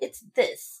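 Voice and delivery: mocking, put-on sassy tone. Retelling offended people's replies: imitating a sassy reply. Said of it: "they're being sassy with you".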